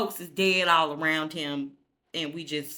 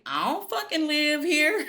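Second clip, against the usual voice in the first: high, louder protest; a sulky teen yelling back at his dad; indignant yell; 10 semitones higher, 5 dB louder than usual. Retold or imitated. Kanan protesting.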